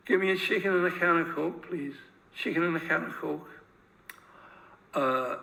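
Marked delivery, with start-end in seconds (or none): 0.1-3.5 put-on Scouse accent. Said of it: "he is a Scouser, uh, asking for a meal".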